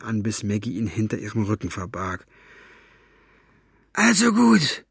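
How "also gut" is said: growled. Acted. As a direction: growl it reluctantly. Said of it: "knurrte er".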